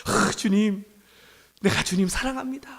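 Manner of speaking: acted gasp of emotion, then soft; softly heartfelt, imitated confession; deeply moved. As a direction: play a disciple overcome by being loved. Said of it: "감동을 받잖아".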